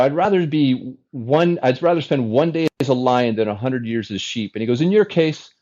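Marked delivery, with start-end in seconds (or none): 0.0-4.5 a hint of an Italian father quoting a proverb; imitating dad's Italian accent. Italian dad quoting Mussolini to his son, mild Italian accent. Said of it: "in his thick Italian accent". 4.8-5.5 put-on higher, teasing with a light Italian accent; lightly voiced Italian father ribbing his son; imitating dad's Italian accent. Italian dad teasing his son, mild imitated Italian accent. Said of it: "in his thick Italian accent".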